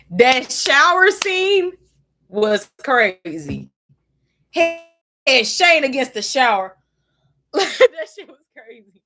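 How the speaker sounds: high, slow, loud gushing. Real, not acted. Fan telling viewers about the shower scene, giddy and loud.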